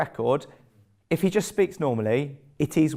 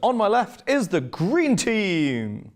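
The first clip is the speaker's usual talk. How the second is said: drawn-out game show introduction; show announcer; 3 semitones higher, much slower than usual. Real, not acted. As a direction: announce the team slowly, with swooping pitch. Host announces team to audience.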